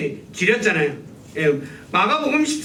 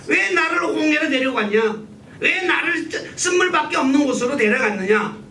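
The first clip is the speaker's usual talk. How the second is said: higher-pitched, imitated grievance; mock complaint; 6 semitones higher than usual. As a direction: lightly act out a people's protest. Acting out Israel's complaint to God. (원망을 흉내 내는 높은 어조)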